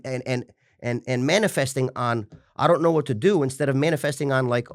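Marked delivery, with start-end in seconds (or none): 2.6-3.4 mock-anxious fretting, pitched higher; imitating a lost, worried self; helpless worry. To the host, mimicking his old panicked self, high anxious fretting. Contrasting worry with calm planning.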